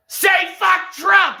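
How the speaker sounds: high-pitched hectoring screech; mock screamed demand. Streamer parodying someone demanding a slogan, high mock scream. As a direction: screech it like a pretend fanatic.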